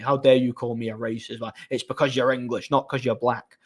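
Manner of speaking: lightly imitated Scottish accent; a touch of retold Scottish indignation. Woman arguing back at the man, light Scottish accent. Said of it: "Like, Scottish accent".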